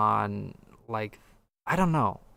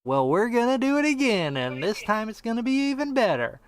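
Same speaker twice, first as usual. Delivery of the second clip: imitating an eager developer, pitch climbing higher; developer's sales pitch; 5 semitones higher than usual. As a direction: pitch it like a hype-selling developer, rising toward the promise. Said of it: "The developer says".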